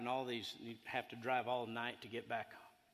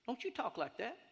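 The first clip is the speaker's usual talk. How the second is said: fatherly scolding; 12 semitones higher than usual. Retold or imitated. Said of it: "and I became dad".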